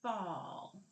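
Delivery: slow, drawn-out fall for the clip drill; fall said for clipping. Shown as a demonstration. Teacher demonstrating fall to the class, drawn out. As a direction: stretch the word fall out slowly. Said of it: "put our fist here and say".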